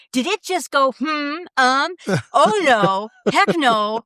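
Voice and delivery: mock alarmed friend; retold friend's alarm. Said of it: "she said".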